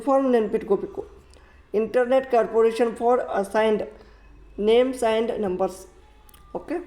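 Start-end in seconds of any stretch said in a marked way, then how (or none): 1.8-5.8 very slow, each word separated; slow teacher dictation; slow full form. Shown as a demonstration. Teacher says full form to remember.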